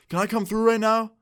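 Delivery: high, urgent phone request; imitated hyped-up friend. Friend asking to come over, loud and hyped. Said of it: "he just sounded so loud and hyped up".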